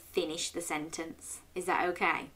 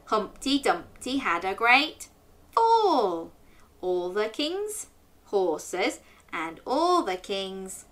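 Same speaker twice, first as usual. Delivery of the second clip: nursery rhyme; slower than usual. Acted. Teacher reciting the rhyme to children, sing-song. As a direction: bounce through the rhyme for children.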